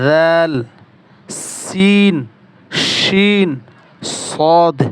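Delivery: teacher's model articulation, long held vowels in names like "সিন", "শিন", "নুন"; makhraj drill. Shown as a demonstration. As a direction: recite Arabic letter names one by one from "আলিফ" to "ইয়া", each isolated by a pause. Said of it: "এইভাবে হরফগুলো মাখরাজ করতে".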